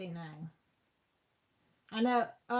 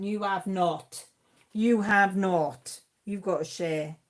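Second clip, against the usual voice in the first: slow, loud disbelief, building; astonished, drawn-out exclamation; emphatic disbelief; 11 dB louder, slower than usual. Real, not acted. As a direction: drag out each word, louder the second time. Mock disbelief at a pattern find.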